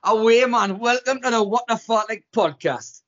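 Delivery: put-on Geordie accent; Geordie-accented podcast welcome. Shown as a demonstration.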